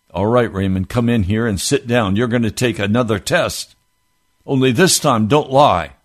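a stern talking-to. Retold or imitated. Man to boy retaking a test, stern scolding. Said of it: "he was stern with me".

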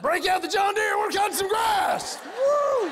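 rowdy landscapers egging each other on; redneck landscapers. Acted. Renegade landscapers shouting to Bubba, a rowdy high holler. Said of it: "renegade landscapers driving around going".

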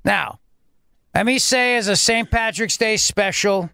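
mock governor ad. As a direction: sell the sanitizer like a cheesy TV ad. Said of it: "his governor voice".

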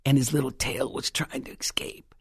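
breathy whisper of the mouse caught in the trap; hushed storytelling whisper. Real, not acted. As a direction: drop to a hush for the dying mouse.

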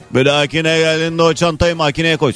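bossy, blunt command; imitating the guard's rude tone; curt order. New guard ordering her to scan the bag, curt bossy tone. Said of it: "Bana böyle dedi".

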